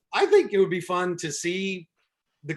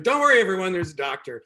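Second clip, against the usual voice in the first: mock reassurance; 3 semitones higher, 6 dB louder, faster than usual.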